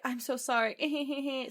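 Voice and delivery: high, slow whimpered apology; imitating a tearful boyfriend; mock crying. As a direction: draw out the apology into fake sobs. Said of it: "Starts crying again".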